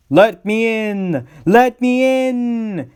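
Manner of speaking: high, slow, drawn-out ghost wail; Percy pretending to be a ghost, wailing spookily; spooky voice. A narrator's reading. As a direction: moan it out like a ghost at the door. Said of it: "said Percy in a spooky voice".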